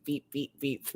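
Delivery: short little beeps; quick mimicked horn beeps; imitated beeping. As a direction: playfully beep at a friend. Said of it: "This is me doing this to Heidi".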